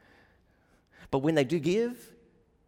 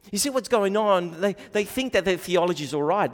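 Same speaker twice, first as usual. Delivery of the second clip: ordinary delivery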